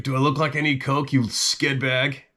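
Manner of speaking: mildly angry retort to a street dealer; a bit aggro. Retold or imitated. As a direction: tourist loses patience with a pushy dealer, mildly angry. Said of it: "I started a little aggro".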